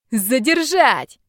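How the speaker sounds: slow, high, loud shrieked order; shrieking order. Acted. Villain shrieks at his men to stop the attackers, high loud shriek. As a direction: shriek at the thugs to stop her. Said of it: "завизжал Степаныч".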